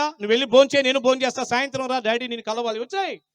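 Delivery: ordinary talk, nothing marked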